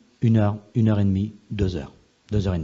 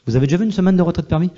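amazed question; 4 semitones higher, 5 dB louder, faster than usual. Real, not acted. Marvelling at a miracle.

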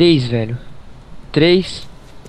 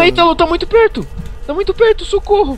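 panicked; 11 semitones higher than usual. Real, not acted. Chased by monster in game.

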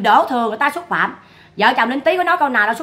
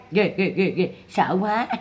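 mock fear; 5 semitones lower, 5 dB quieter, slower than usual. Real, not acted. Mocking fake fear.

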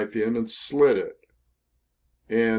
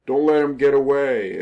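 mild retold yell, pitched a bit higher; mock scream; 4 semitones higher, 4 dB louder than usual. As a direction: call it out urgently, without really screaming. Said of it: "screaming out".

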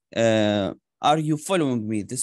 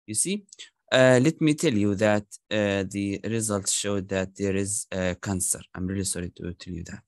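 breaking bad news; 5 semitones lower than usual. Shown as a demonstration. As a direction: let the voice sink as you tell it. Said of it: "if it is like bad news".

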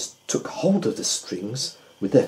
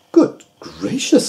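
mild surprise; 13 semitones higher, slower than usual. A narrator's reading. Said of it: "said the Doctor".

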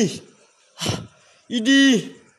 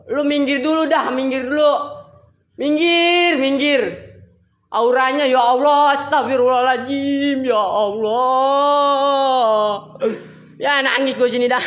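high, alarmed pleading; spooked, high-pitched outcry; panicked wail; 5 semitones higher than usual. Real, not acted. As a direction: wail it in fright, stretching the last words. Frightened, tells others to move aside.

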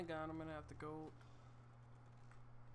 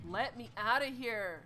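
pleading; 5 semitones higher, 7 dB louder than usual. Real, not acted. Trapped in game, pleading.

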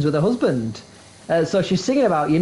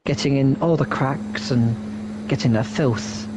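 mock commentary; 2 semitones lower than usual. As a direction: parody a cleaning game commentator. Mocking a power wash commentary.

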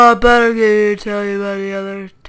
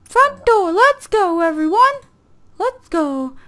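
excited rallying call; 7 semitones higher, slower than usual. Pretend. Rallying the party.

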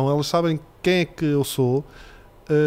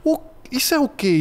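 put-on much higher, startled child's question; alarmed little girl; 9 semitones higher than usual. Girl spotting protein powder in cake, high alarmed child voice. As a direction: squeak it like a worried little daughter. Daughter quoted, alarmed by coconut milk.

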